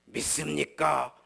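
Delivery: slow, drawn-out 믿습니까 as a revival preacher asks; preacher's call. Shown as a demonstration. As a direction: stretch 믿습니까 slowly to the crowd. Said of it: "막 이래야 되는데". (천천히 늘여 부르는 부흥사의 믿습니까)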